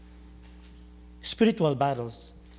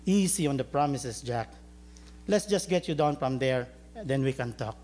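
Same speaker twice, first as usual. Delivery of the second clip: calm Lord; 4 semitones lower, 5 dB quieter than usual. Acted. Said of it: "Then the Lord replied".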